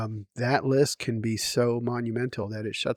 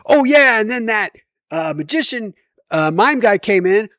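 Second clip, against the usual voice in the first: mock zombie groan, louder and higher; imitating daughter's zombie voice; 8 semitones higher, 6 dB louder than usual. Dad mimics his daughter's zombie impression, hammed up. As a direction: poke fun at a one-voice impression. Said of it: "all she has is zombie".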